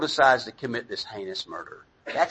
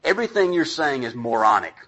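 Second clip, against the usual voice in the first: mock harsh parent; 3 dB louder than usual. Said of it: "when I'm a bad parent, what I go into is".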